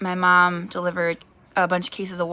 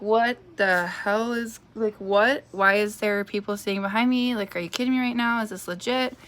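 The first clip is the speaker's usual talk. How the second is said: retold disbelief; 4 semitones higher than usual. Mom reacts to medium's claim.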